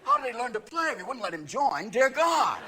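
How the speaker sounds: mock despairing old British golfers; old men panicking. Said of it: "all the old men are going".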